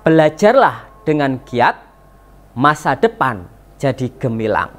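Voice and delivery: measured verse reading, pausing after each line; pantun recitation. Shown as a demonstration. Teacher models a pantun for pupils, measured recitation. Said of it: "Pak guru ulangi".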